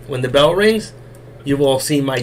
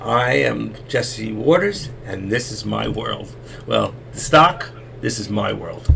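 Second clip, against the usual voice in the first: slow, drawn-out TV host sign-off, fading softer; a hint of a news anchor, very slow; Jesse Waters impression; 3 semitones lower, 3 dB quieter, slower than usual. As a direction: lightly mimic a cable news host. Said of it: "You ever watch Jesse on Fox? He goes".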